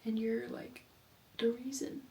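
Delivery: hushed whisper while reading a book late at night. Real, not acted.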